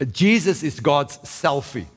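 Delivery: slow and deliberate, each word weighed; slow punchline. Retold or imitated. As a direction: let the quote land slowly. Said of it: "I heard somebody once says".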